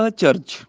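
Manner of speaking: ਅਚਰਜ as "a—charj"; separated prefix. Shown as a demonstration. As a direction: split ਅਚਰਜ after the short a. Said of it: "ਇੱਦਾਂ ਹੀ". (ਅਚਰਜ ਨੂੰ "ਅ-ਚਰਜ" ਬੋਲੋ)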